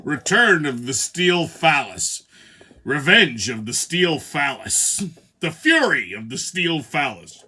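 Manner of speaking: slow, drawn-out mock film titles; samurai movie titles. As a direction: announce each like an epic samurai sequel. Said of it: "a series of samurai movies".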